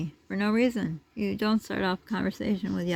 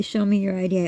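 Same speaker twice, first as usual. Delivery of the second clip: firm demand; 5 dB louder than usual. Retold or imitated. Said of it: "I'd say".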